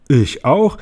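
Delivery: höher, Marienkäfer ruft dazwischen; rufend. Acted. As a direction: eifrig gerufen. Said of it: "rief der Marienkäfer". (hoch gerufenes Ich auch)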